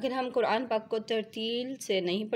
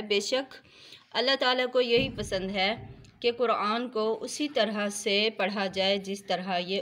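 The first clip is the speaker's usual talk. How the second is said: emphatic quote; 4 dB louder than usual. Shown as a demonstration. Quoting the Prophet emphatically.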